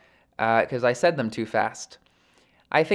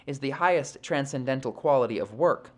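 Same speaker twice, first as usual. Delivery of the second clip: measured, formal read-aloud of sacred text; composed audiobook-style recitation; scripture reading. Acted. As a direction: read the commentary out evenly, phrase by phrase. Reads scripture and purport aloud.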